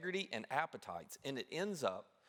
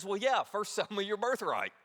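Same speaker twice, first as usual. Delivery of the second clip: smug younger brother; 5 semitones higher, 3 dB louder than usual. Retold or imitated. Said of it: "as only a younger brother could, and says".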